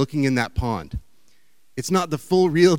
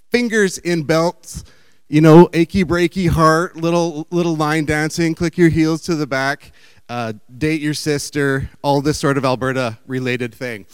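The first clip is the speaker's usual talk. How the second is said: mock Alberta redneck; 6 dB louder than usual. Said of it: "I can't necessarily do an Alberta, uh, imitation".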